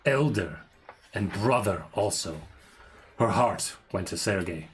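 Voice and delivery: dramatic reading. Acted. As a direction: read it like an old curse. Continues journal reading.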